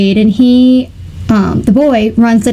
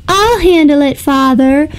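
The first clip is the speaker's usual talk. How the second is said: put-on confident boy; 4 semitones higher than usual. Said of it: "The boy is like".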